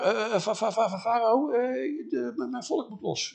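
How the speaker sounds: high-pitched nervous stammer; stuttering. Acted. Moses imagines addressing Pharaoh, stuttering. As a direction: trip and stammer over the first sounds. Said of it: "Ik stotter een beetje".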